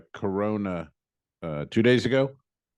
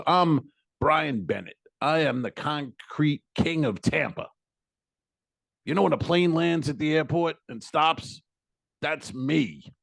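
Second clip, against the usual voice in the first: boastful tipsy concrete king; 5 semitones higher than usual. Retold or imitated. A tipsy stranger boasting to the teller, lightly voiced. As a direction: brag like you own the runway. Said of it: "He goes".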